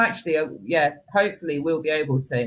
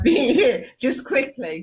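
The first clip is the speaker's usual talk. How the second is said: laughing; 7 semitones higher, much slower than usual. Real, not acted. Laughs while changing the subject.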